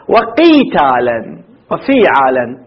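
وقيتالا drawn out slowly, syllable by syllable; slow pattern recital. Shown as a demonstration. Teacher spelling patterns for students, very slow. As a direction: lay out the patterns slowly, word by word. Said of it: "لكن فعال وفيعال".

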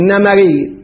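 نمري as "namari", a after the m; slow, open short a on the mim of نمري; fatha on the mim. Shown as a demonstration. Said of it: "نفتح في نمر". (نمري بفتح الميم)

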